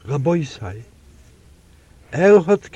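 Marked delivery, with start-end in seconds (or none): 0.0-0.8 "Rabbi sei" said soft and much quieter. A narrator's reading. Defender's gentle opening word to the heavenly court, soft and quiet. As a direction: ease the words out gently. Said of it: "gemacht a weich Kohl".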